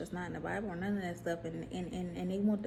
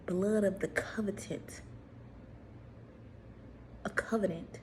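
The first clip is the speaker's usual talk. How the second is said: secret whisper; 4 dB quieter than usual. Shown as a demonstration. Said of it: "whispered reveal of real quote".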